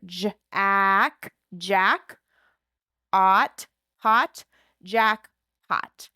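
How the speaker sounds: "jackpot" stretched slow, sounds blended; blending syllables. Shown as a demonstration. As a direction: slowly blend "Jack" and "pot" together. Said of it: "blend the sounds within each syllable".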